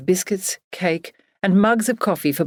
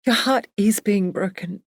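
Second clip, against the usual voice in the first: slightly higher, calm, stress on "Your"; gently tearful; 4 semitones higher than usual. Acted. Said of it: "Emily's gentle crying".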